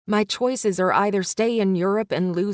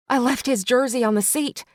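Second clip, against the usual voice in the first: cry out; 4 semitones higher than usual. Acted. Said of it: "I cry out".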